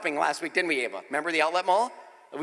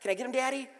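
pleading daughter; 3 semitones higher, 6 dB quieter than usual. Retold or imitated. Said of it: "she's like".

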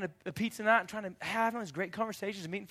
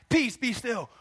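mic drop command; 6 semitones higher, 6 dB louder, slower than usual. Acted. Jesus mic drop moment.

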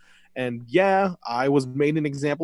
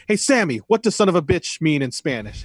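higher, louder mock-inquiring call; acted question; 3 semitones higher, 4 dB louder than usual. Jericho asking Sammy for a translation, acted question. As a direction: put the question to him in a raised voice. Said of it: "in which Jericho asks".

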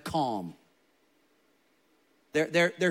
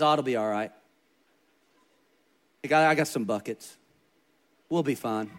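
imitating grandpa; 5 semitones lower than usual. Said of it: "this is exactly how he talked".

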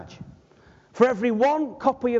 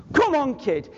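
calling the cat; 2 semitones higher than usual. Retold or imitated. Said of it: "Now I'm saying it to our cat".

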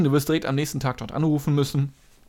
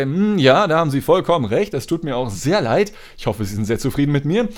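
customer service voice. Retold or imitated. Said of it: "so übertrieben freundlich".

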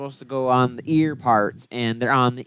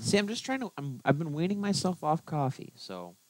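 low energy; 2 semitones higher, 8 dB quieter, faster than usual. Real, not acted. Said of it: "And you're yawning already".

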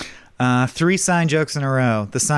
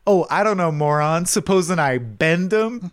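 a touch higher, slow, smug; Bender answering himself; 4 semitones higher, slower than usual. Retold or imitated. Bender replying to himself at the grate, mock-smug. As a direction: answer yourself like a know-it-all. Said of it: "Bender as Santa".

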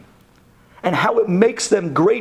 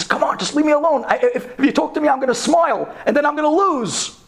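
put-on higher, pleading kid voice; 7 semitones higher than usual. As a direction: beg to be left alone. Kid pleading to be left alone.

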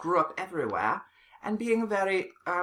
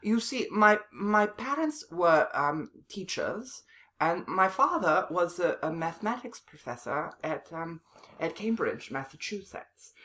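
put-on posh accent; 2 semitones higher than usual. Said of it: "your accent is very, uh, it seems very proper".

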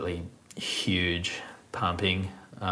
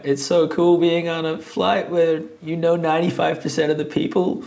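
quoting a friend; 10 semitones higher, 4 dB louder than usual. Retold or imitated. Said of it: "she's like".

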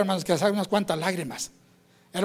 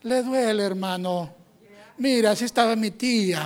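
mock-concerned, drawn-out doubter; put-on sympathy, words trailing away; doubting churchgoer. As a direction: lightly imitate a pitying naysayer. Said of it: "hay gente, hermanos, incrédula".

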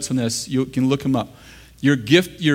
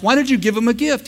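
mock angry complaint; 7 semitones higher than usual. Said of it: "And I'm mad at him".

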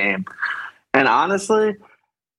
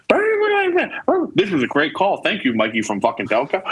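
high fake-cheery host voice that falls away; lightly mocking a gushing host; mocking radio host; 5 semitones higher than usual. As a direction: sneer at the radio host's praise.

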